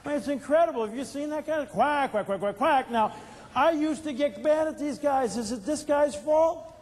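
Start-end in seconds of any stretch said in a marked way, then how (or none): 1.7-2.9 mock duck quacks; duck quacking. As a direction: quack like a duck making excuses. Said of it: "They go quack".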